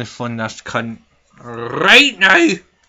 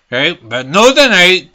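mocking excuse; 6 semitones higher, 10 dB louder than usual. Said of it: "this motherfucker said".

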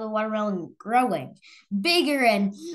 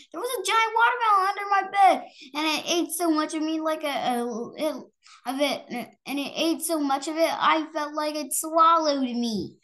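put-on upset child; 5 semitones higher than usual. Nora telling Mama her dream.

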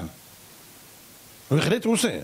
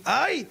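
single high "ay" yelp; mock cry; 4 semitones higher, slower than usual. Teacher showing how the righteous cry at first, mock yelp. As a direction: give a brief imitated yelp. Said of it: "בהתחלה צועקים".

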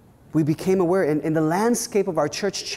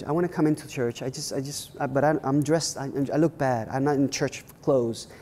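timid visitor; 2 semitones lower than usual. Retold or imitated. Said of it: "Let me use her language".

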